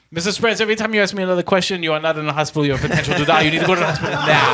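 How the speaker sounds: put-on urgent scolding in an Indian accent. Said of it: "a guy with a very heavy Indian accent".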